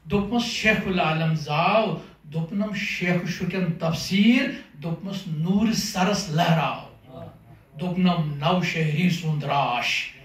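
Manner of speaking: measured, deliberate verse delivery; poem recitation. Acted. Poet reciting question-and-answer verse to an audience, measured recitation. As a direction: recite line by line, pausing after each cue word.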